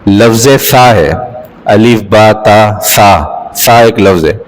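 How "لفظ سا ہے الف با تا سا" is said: سا said slowly with tongue between teeth; letter tha demo. Shown as a demonstration. Teacher demonstrating the letter سا to students, slow and clear. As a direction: draw out سا, tongue out. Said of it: "مثال کے طور پر".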